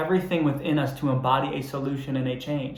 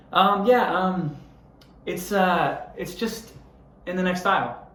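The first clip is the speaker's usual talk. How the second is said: higher, hesitant mock of a lazy employee; vague clerk; 5 semitones higher, slower than usual. Clerk barely helping the customer, mocked higher and halting. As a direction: drag it out with ums like you can't be bothered. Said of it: "he just goes".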